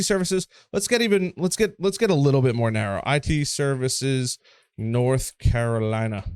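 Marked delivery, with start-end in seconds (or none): 3.1-6.2 slow, drawn-out put-on Southern accent on North Carolina. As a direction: stretch "North Carolina" out in a lazy Southern twang. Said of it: "I don't know why I said with an accent".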